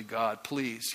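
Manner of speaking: soft, low gentle please; calm an angry God down quietly. Retold or imitated. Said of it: "is really calm and he's able to calm down".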